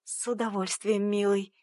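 sly politeness. Acted. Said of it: "вежливо произнесла".

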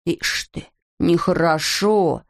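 slow mocking echo of нехорошо; mocking mimicry. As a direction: drag out нехорошо teasingly. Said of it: "передразнил голос".

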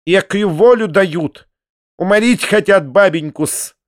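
high, indignant spinster's outcry; indignant cry. A narrator's reading. Перепелицына protesting that granny is being done in, high indignant cry. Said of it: "крикнула Перепелицына".

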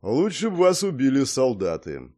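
put-on mildly grim old man. A narrator's reading. Old man condemns the visitors' choice, grim. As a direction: deliver it with a touch of gloom. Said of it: "мрачно сказал Гордей".

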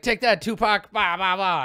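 put-on high, loud kid with mouth-made gunfire; play-fight shouting. Boy shoots playmate with pretend gun, high mock shouting.

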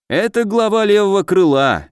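high-pitched character voice; mayor over amulet. A narrator's reading. Forgotten mayor answers through a talking amulet, high-pitched. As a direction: pitch it high, piping up unexpectedly. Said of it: "из переговорного амулета донёсся голос мэра Плехана".

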